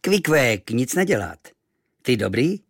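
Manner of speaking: kindly. Acted. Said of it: "vlídně usmál".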